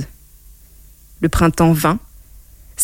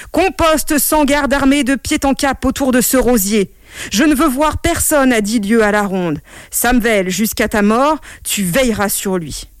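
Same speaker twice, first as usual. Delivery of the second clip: commanding king; 4 semitones higher than usual. Acted. King gives orders.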